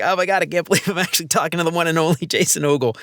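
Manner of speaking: quick, breathless fanboy gush, lightly played. Host retelling meeting his podcast hero, mock gushing. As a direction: rush it out like a starstruck fan. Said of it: "I was kinda gushing a little bit".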